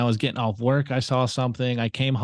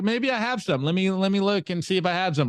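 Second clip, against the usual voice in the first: cousin voice; 5 semitones higher than usual. Retold or imitated. Voicing cousin checking his bitcoin.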